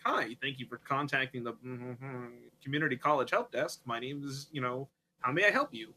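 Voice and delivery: recorded message voice. Retold or imitated. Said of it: "with that cadence of a recording".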